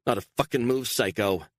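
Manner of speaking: a scared woman warning with a gun; threatening snarl. Acted. Beatrice threatening Stone with gun.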